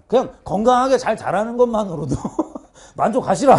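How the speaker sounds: cheeky declaration with a laugh; brazen confidence. Acted. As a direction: tell parents off cockily, half laughing. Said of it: "이렇게 당당하게 얘기해". (웃음 섞어 당당하게)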